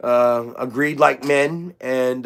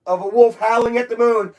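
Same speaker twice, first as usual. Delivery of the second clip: slightly higher, theatrical delivery; dramatic poem recital; 7 semitones higher than usual. Acted. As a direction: recite it like spooky verse.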